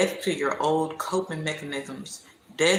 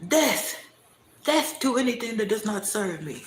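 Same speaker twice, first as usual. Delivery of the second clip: emphatic declaration; 6 semitones higher than usual. Real, not acted.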